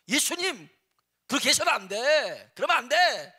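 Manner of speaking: high, loud rebuke of his teacher; scolding Peter. Retold or imitated. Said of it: "예수님한테 야단을 치는 겁니다". (베드로가 예수님을 야단치듯 높고 크게 꾸짖는 목소리)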